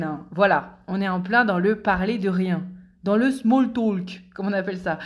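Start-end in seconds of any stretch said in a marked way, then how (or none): 3.3-4.2 slow, showy English accent. Shown as a demonstration. Chronicler showing off to listeners, English accent. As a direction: put on a proud English accent. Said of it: "mon super accent anglais".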